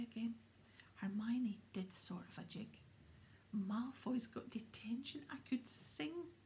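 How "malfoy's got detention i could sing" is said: slow, higher delighted gloat; gleeful. Acted. Hermione on the tower celebrating, gleeful. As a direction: savour the good news with glee.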